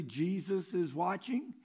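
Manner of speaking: lightly voiced, slow warning; mysterious unseen voice. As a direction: draw it out like an unseen watcher. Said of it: "he heard the voice say".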